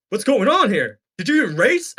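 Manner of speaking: put-on doubting brother; brother impression. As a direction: imitate a brother questioning you. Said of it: "That's my brother impression".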